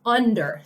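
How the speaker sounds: "under" said alone, firmly and distinctly; emphatic "under". Shown as a demonstration. Mother teaching Susie where teddy was, emphatic "under". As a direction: set "under" apart as the key word. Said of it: "Emphasize the word under".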